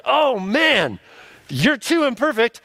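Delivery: preacher mocking a frantic complaint; mock fretting voice. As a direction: play the fussing doubter for laughs. Mock complaint about imperfection.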